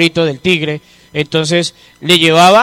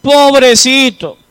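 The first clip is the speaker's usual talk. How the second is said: higher, slow mock pity; drawn-out, higher "Ay, pobrecito" full of pity; 5 semitones higher, slower than usual. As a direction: coo it like a pitying visitor. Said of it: "actitud de lástima".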